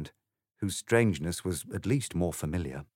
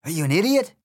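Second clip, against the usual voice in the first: loud, higher, sneering egg voice; rude Trumpty Dumpty; 10 semitones higher, 8 dB louder, faster than usual. Acted. The egg insults Alice, loud sneering voice. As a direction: sneer it with contempt.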